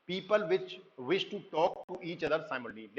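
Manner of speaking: slow, careful reading of an English definition; slow slide reading. Acted. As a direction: read it out word by word like a textbook. Reads slide line slowly. (धीमी, सधी आवाज़ में पाठ पढ़ना)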